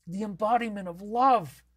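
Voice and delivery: "the embodiment of love" in a high, raspy granny voice; raspy Tran Ma. Acted. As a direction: coo "the embodiment of love" like a doting old grandma. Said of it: "I gotta be raspy".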